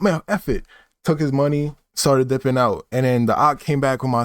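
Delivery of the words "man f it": higher, dismissive brush-off; fed-up guy. Retold or imitated. Guy giving up on waiting, pitched-up brush-off. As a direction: toss it off in his pitched-up voice. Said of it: "He's like".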